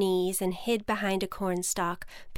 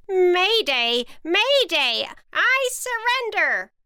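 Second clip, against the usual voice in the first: much higher, louder, slow surrender cry; panicked witch yell; 11 semitones higher, 8 dB louder, slower than usual. Acted. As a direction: shriek for mercy at the dragon. Witch waves kerchief yelling.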